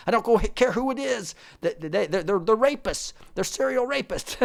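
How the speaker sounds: hammed-up accusing whine; mocking Democrats. Vlogger parodying Kavanaugh accusers, mock outraged. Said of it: "just like Kavanaugh".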